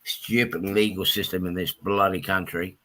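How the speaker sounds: low, subdued and unhappy; upset. Real, not acted. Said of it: "I'm not too happy at the moment".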